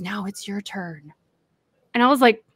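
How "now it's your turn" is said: slow, hushed imitation of his murmur; retold whisper. Man nudging close during prayer hands over the turn, whispering. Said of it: "he whispers".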